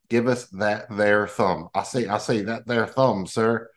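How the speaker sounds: lightly drawn-out Southern accent, a hint of Foghorn Leghorn repetition. Co-host sneaking a Southern accent into the podcast sign-off, lightly Southern. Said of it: "See, I snuck in the Southern accent".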